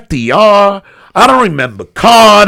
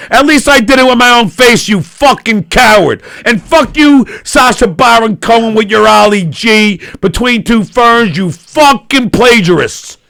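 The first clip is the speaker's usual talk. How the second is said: heated mock rant; angry rant. Real, not acted. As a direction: rant at rivals. Ranting at comedians.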